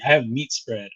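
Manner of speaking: mildly glum mock complaint; understated, downbeat imitation; bummed out. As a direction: imitate someone let down by their rations. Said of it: "bummed out".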